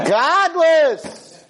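loud, high, drawn-out cry; outraged exclamation. Real, not acted. Speaker repeating his verdict on the joke, outraged. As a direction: bellow it in comic indignation. Second take, exclaimed for effect.

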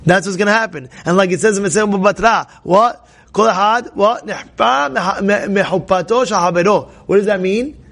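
normal talking voice

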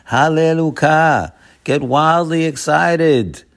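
high, slow, joyful call of praise; wildly excited. Shown as a demonstration. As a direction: lift the voice up with wild joy. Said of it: "Hallel means to be wildly excited".

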